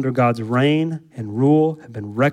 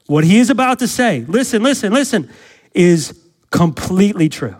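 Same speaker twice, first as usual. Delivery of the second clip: raised, urgent pulpit build-up; preaching at full force; 3 semitones higher than usual. Acted. Preacher rousing the church before the verse, raised and urgent. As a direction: drive it home to the congregation.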